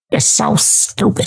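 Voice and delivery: breathy whispered put-down; whispered mock. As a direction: hiss it under the breath.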